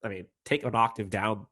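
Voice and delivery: stuffed-up nose, congested; blocked nose. Real, not acted. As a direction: talk through a blocked nose. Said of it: "I can't breathe out of my nose right now".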